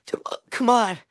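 urgent whispered plea. Real, not acted. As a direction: whisper it under your breath. Urging self, unvoiced.

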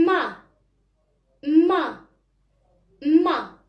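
ما as "ma", opened on the "a"; teacher sounding out ما for children to repeat; fatha syllable. Shown as a demonstration. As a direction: model ما clearly as one syllable "ma". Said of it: "كيفاش غنقولو له؟".

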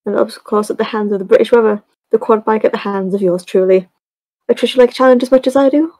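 put-on lightly done British accent reading. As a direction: read it like a British lady, lightly. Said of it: "she's British. I can make you read this".

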